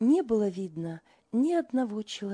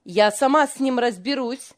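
angry; 3 semitones higher, 8 dB louder than usual. A narrator's reading. Angry mother continues.

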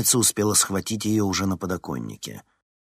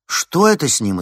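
frightened cry; 6 semitones higher, 8 dB louder than usual. A narrator's reading. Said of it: "испуганно воскликнула Вероника".

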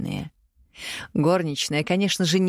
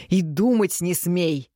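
slow, firm father's verdict; a hint of a stern father, slow; firm flat ruling; 2 semitones higher, slower than usual. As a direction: lay it down slowly, end of discussion. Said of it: "припечатал родитель".

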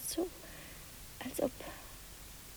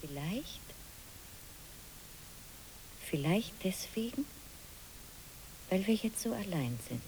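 frightened whisper; 3 semitones lower, 8 dB quieter than usual. Acted. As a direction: whisper it as if afraid to be heard. Ängstliche Frau flüstert. (ängstliches, langsames Flüstern)

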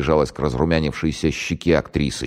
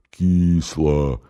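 whiny complaint. Acted. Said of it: "скорчил жалобную рожу и пожаловался".

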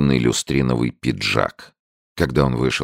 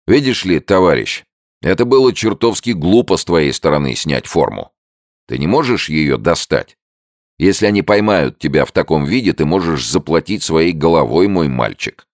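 much higher, louder, brash soldier; loud friendly soldier voice; hearty soldier; 5 semitones higher, 5 dB louder than usual. A narrator's reading. American soldier to Andrews, brash and loud.

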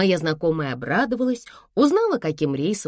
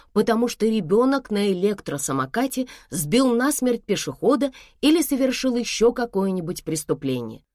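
ordinary delivery, nothing marked

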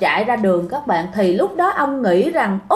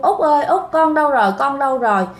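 retold calling, only mildly raised; 3 semitones higher, faster than usual. Grandfather calling his missing son at the canal, mild call. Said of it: "kêu quá trời luôn".

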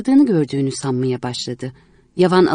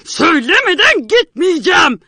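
higher, louder, refusing to be pulled away; furious; 13 semitones higher, 5 dB louder than usual. Acted. Painter pulled back by friend, furious shout at her. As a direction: dig in and roar it. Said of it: "O hiddetle".

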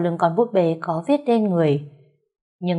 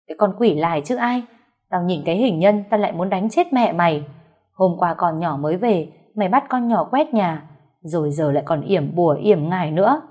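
raging scold. Acted. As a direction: tear into her in fury. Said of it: "trù chéo". (mẹ chồng chửi mắng con dâu giận dữ)

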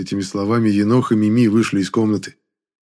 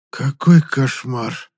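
half-hearted dismay; 4 semitones higher, 4 dB louder, much slower than usual. Acted. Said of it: "постарался вложить хоть немного эмоций".

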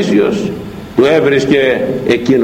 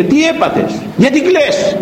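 worried friends; 13 semitones higher than usual. Acted. Friends asking why he cries.

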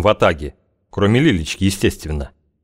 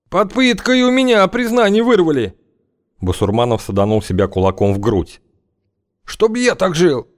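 high, shrill pleading wail; whining protest; 10 semitones higher than usual. Acted. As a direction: protest innocence in panic. Basurmanov protesting loudly.

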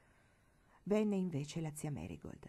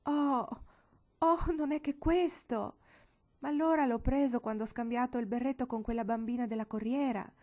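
overjoyed relief; 4 semitones higher, 4 dB louder than usual. Acted. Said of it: "era così felice".

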